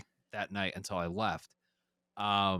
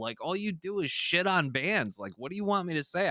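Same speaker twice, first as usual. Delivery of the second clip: retold retort; 8 semitones higher than usual. Retort to the antagonist.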